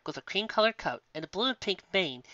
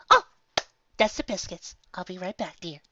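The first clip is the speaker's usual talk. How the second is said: high, gentle motherly mare calling out; a kindly shopkeeper voice, lifted high; sweet baker mare; 4 semitones higher than usual. Acted. Baker calling to guests from the oven, sweet and high.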